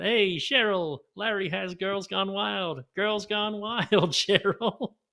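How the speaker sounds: mocking yell, high, slow and drawn out.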